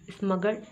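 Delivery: स्मगल्ड ending straight on LD, no E; silent E. Shown as a demonstration. Teacher shows learners how it reads, demonstrating silent E. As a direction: drop the E in स्मगल्ड. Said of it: "इस तरह से पढ़ते हैं".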